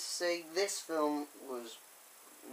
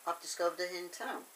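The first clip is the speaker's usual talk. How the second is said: understated, quick remark to oneself; casual musing; 2 semitones higher, 3 dB quieter, faster than usual. Retold or imitated. Thomas taking in his find, understated casual musing. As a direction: toss the discovery off casually.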